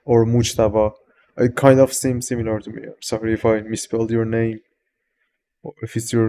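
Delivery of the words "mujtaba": "Mujtaba" with a U in the first syllable; alternative Farsi-Arabic form. Shown as a demonstration. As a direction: say "Mujtaba" as Mooj-ta-ba. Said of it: "in Farsi and Arabic we have".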